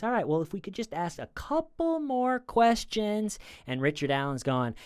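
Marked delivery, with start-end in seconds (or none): 0.0-3.4 much higher, overly friendly interrogator; mock upbeat detective tone; friendly cop voice. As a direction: sweeten it up like a cop keeping things cordial. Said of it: "keep the friendly voice".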